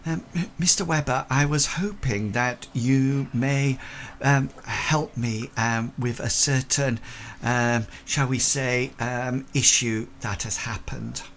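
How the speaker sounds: a hint of a hesitant Victorian lady; lightly voiced polite lady. Lady asking a gentleman for help, lightly voiced and hesitant. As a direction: choose words delicately as a lady. Game master plays Miss Lawrence.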